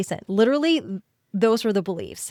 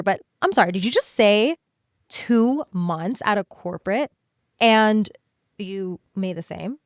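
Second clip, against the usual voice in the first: inner bestie voice. Pretend. Inner bestie cheering her on about matching her corporate pay. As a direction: cut in like an excited best friend who can't believe the news. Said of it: "here's what an inner bestie might sound like".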